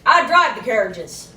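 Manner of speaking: put-on old driver refusing to drive without himself; gruff carriage driver. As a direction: turn them down flatly.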